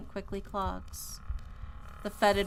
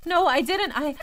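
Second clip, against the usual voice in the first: tearful denial; 9 semitones higher, 9 dB louder than usual. Acted. Accused by ghost, denying.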